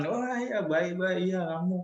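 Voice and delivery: gushing to a friend's face; fake friendly. A student acting nice to a friend's face, fake friendly.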